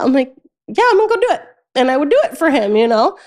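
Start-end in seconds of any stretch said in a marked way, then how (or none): 0.7-1.4 mock resigned reply. Her own reply imitated.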